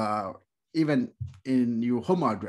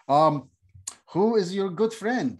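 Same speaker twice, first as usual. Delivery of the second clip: sweet prying question; 6 semitones higher, 4 dB louder than usual. Acted. Stranger prying, high voice.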